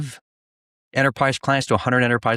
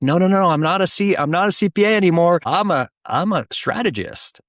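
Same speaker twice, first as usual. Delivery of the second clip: retold protest; 8 semitones higher, 3 dB louder than usual. Retold protest to clients' request.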